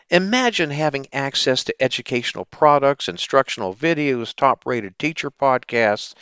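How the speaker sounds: upbeat sponsor pitch; chipper 1950s ad. Acted. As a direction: sell it with a bright smile. Sponsor ad read.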